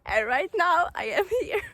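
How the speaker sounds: real emotion. Real, not acted. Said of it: "I'm so emotional right now".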